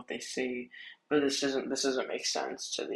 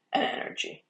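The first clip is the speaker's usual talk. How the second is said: voice crack. Real, not acted. Weather forecaster explaining that cape is energy, voice cracking. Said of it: "that was a horrible voice crack".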